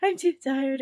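high, laughing, grossed out; laughing disgust. Retold or imitated. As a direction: squeal it through laughter. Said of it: "I was like".

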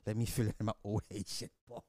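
low, fast read of a chat message; reading a donor's message. Retold or imitated. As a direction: read it as the deep-voiced viewer. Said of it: "Ed Neese super chat".

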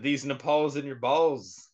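slow, deliberate mock delivery; slow quoted line. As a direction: drag out the quoted punchline slowly. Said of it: "I said".

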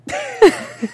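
loud high bellowing roar; walrus bellow. Real, not acted. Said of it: "Now you just sound like a big walrus cat".

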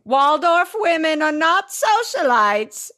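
hammed-up mother yelling; mock yell. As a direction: call after her sternly. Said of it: "Eleanor yells after her".

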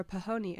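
phone said as "pahoni", three syllables pa-ho-ni; silly mispronunciation. Shown as a demonstration. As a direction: say "pahoni" like a cute family nickname for phone. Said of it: "as we like to say in this house".

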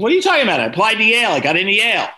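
high, loud, incredulous protest; mock indignant disbelief. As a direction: act out arguing back at dad in disbelief. Arguing with dad about college.

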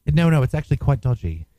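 put-on British accent. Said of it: "the accent that you were doing before".

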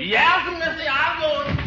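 high squeaky maid voice; high falsetto maid. Acted. Gildy answering as the maid.

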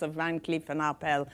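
put-on Van Cleef and Arpels with a light French accent. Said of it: "in wonderful French accent".

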